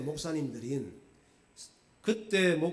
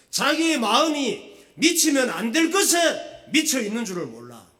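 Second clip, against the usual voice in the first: loud, high-pitched sermon delivery; full-force preaching; 9 semitones higher, 9 dB louder than usual. Real, not acted. Pastor warning the congregation about misplaced obsession, full-force preaching. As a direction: drive the warning home to the congregation, loudly.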